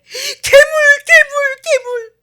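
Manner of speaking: put-on very high, very loud child's cry; imitating a little child crying monster; frightened child. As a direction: squeal it like a scared toddler.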